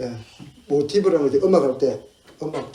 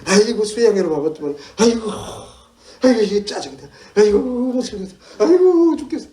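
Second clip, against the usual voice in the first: high-pitched mock moaning; grumbling complaint; 5 semitones higher, 5 dB louder than usual. Churchgoer moans about the retreat, hammed-up exasperated grumbling. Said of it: "투덜투덜투덜투덜 불평하고 원망하고".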